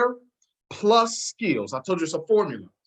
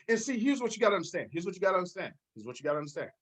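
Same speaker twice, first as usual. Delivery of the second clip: fading down; 3 semitones lower, 8 dB quieter, much faster than usual. Real, not acted. Repeated phrase fading down.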